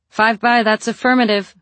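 steady confident call. A narrator's reading. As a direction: call back, trying to sound fine. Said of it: "amazed to find she actually sounded five by five".

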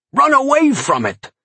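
very high, panicked warning cry; terrified howl. A narrator's reading. Farmer warning a stranger about the imp, terrified howl. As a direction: howl it in sheer terror. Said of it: "howled at me in terror".

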